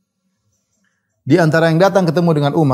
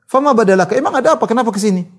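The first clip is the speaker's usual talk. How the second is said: high-pitched, lightly acted surprise; puzzled questioning; 6 semitones higher than usual. Uwais asks his unexpected visitor why he came, puzzled. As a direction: question the visitor in mock bewilderment. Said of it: "Uwais heran".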